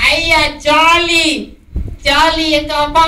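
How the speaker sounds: high, loud, slow drawn-out cheer; excited cheer. Acted. Tinku cheering to daddy over the bicycle, excited. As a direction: cheer with delight at the promise.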